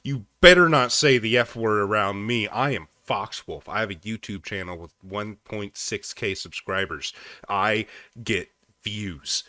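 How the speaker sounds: a hint of a pompous scold; mock self-righteous man. Streamer mocking the man in the clip, light pompous scold.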